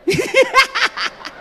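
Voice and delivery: loud high burst of laughter; laughing out hard at the joke. Real, not acted. Preacher laughing loudly at his own joke.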